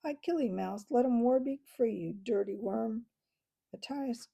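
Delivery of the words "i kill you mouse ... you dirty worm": angry chatter. Acted. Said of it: "chattered angrily".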